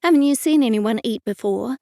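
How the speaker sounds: said around a mouthful of food; mouth full. Acted. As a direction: speak through chewing food. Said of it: "I said through a mouthful of crumbs".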